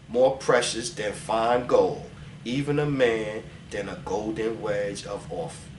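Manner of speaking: slow, soft scripture reading. Acted. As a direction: read the verse slowly and hushed, like in church. Reads Isaiah aloud.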